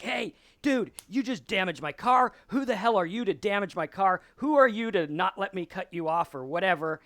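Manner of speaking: mock angry driver. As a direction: play the furious guy who got rear-ended. Angry driver voiced in story.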